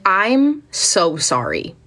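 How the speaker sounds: very slow "so sorry"; drawn-out apology. Retold or imitated. Student apologising to teacher after reading in class, drawn-out. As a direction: stretch out the apology.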